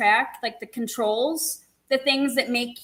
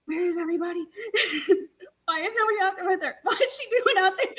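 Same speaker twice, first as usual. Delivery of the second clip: imitating announcer; 5 semitones higher, much faster than usual. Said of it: "And he's all like".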